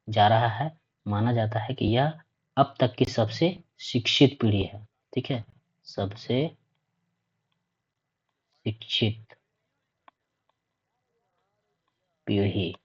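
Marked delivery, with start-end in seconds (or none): 5.9-12.7 softer, with very long pauses between words; one word at a time, quietly spaced out; word-by-word dictation. Real, not acted. Teacher repeating the key phrase for students, word by word.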